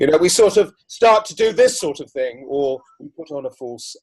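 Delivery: high, loud put-on voice; strange masked voice. Shown as a demonstration. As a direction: demo a nervous, masked voice. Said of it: "not abnormal, but slightly strange".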